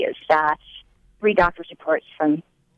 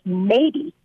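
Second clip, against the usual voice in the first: pointed threat; much slower than usual. Retold or imitated. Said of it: "points her finger in my face".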